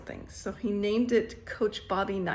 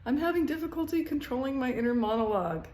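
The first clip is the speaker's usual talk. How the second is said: quick, light mock Austin Powers line, only a little higher; 4 semitones higher, faster than usual. Vlogger quoting a movie line as a light Austin Powers impression. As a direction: toss off a hint of Austin Powers, fast. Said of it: "Austin Powers".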